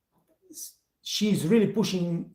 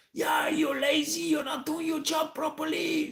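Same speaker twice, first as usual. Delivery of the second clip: much higher imitated yell at a lazy waiter; retold screaming; 11 semitones higher than usual. The boss's daughter scolding him, much higher mock yell.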